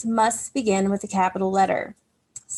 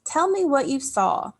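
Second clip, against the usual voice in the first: "Tell me what you saw" read as a firm command, a little higher and louder; 5 semitones higher, 4 dB louder than usual. Shown as a demonstration. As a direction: give it as an order. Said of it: "is a command or an imperative sentence".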